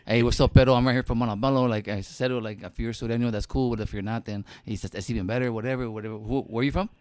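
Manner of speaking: put-on hustling cellmate in a cholo accent, pushing a little; jail talk. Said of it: "If I was in jail, I'd be like".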